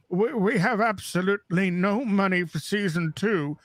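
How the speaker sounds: a hint of a pompous producer; lightly voiced studio spin; half-hearted mock of the trailer makers; mock trailer paraphrase. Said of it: "can I just paraphrase the Picard trailer".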